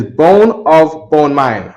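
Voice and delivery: "bone of bone mine" said slowly and clearly; slow model phrase. Shown as a demonstration. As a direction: lay out the Hebrew order slowly.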